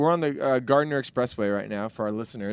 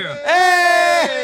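loud, high startled hey; surprised shout; 7 dB louder than usual. Real, not acted. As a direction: jump with real surprise.

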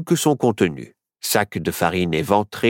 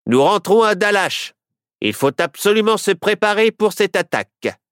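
sheriff voice; 9 semitones higher than usual. A narrator's reading. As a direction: play the sheriff, pitched up and brash. Sheriff character voice.

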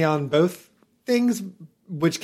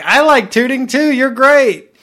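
high put-on voice; 9 semitones higher, 9 dB louder than usual. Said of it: "And I'm like".

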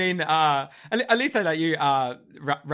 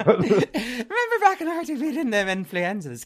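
mock old-timer; 7 semitones higher, 3 dB louder, slower than usual. Mocks old folks' talk.

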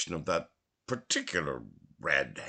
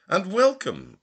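put-on old man voice; 13 semitones higher, 8 dB louder than usual. A narrator's reading. Old man answering the sailor.

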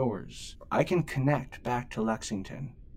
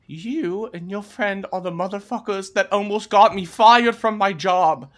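loud, higher, accusing; angry guard; 8 semitones higher, 6 dB louder than usual. Acted. Guard confronting the thieves who got him nearly fired, loud and angry. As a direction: jab the blame at them hard. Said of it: "He looks at you and goes".

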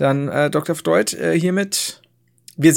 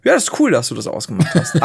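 mock Twitter voice. Voicing Twitter.

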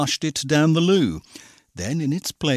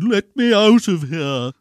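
muttered; 6 semitones higher, 8 dB louder than usual. A narrator's reading. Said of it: "He muttered".

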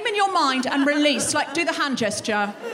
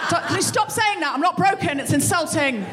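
exasperated wife; 5 semitones higher than usual. Acted. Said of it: "You'd be like".

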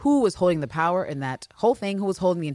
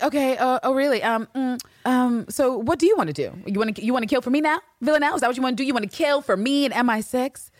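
mock condescending Carolyn; 7 semitones higher than usual. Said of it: "And after she's like".

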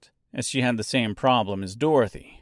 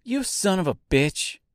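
angry shout; 7 semitones higher than usual. Acted. Angry outburst after losing game.

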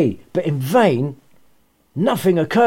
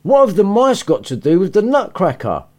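annoyed mother; 3 semitones higher than usual. Acted. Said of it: "vibe of pissed off mother in her voice".

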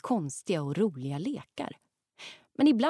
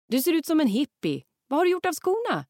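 amused; 10 semitones higher, 7 dB louder than usual. Acted. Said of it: "säger pappa roat".

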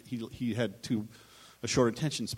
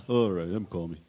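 lightly voiced Larry signing off; a hint of Larry's gruff goodbye; Larry David ending the call, lightly voiced; Larry David impression; 5 semitones lower, 3 dB louder than usual. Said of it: "It's, uh, Larry David".

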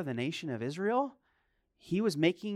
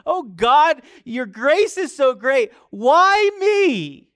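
a higher, louder awed cry of humility; humbled before God's grace; humble why me; 10 semitones higher, 12 dB louder, slower than usual. Shown as a demonstration. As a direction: ask in grateful wonder. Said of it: "where you humble yourself and in humility".

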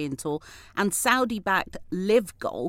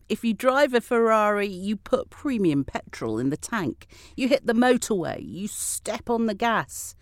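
higher-pitched quote with a hint of Swedish accent; put-on Swedish accent; 6 semitones higher than usual. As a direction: lightly put on a Swedish accent, building the boast. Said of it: "why I put on that accent".

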